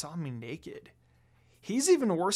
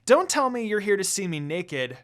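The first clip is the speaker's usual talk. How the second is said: embarrassed scold; 3 semitones higher, 6 dB louder than usual. Acted.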